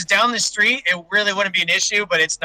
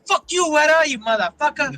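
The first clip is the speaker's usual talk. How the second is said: higher-pitched mock cholo accent, oddly Asian-sounding; cholo accent slipping into Asian; 7 semitones higher than usual. Cursing out the teacher in a cholo accent gone Asian. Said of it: "Why'd you sound Asian there?".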